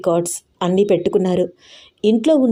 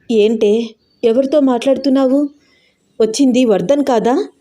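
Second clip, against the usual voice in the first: confused; 5 semitones higher than usual. Acted. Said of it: "అయోమయంగా చూస్తూ అంది దీప".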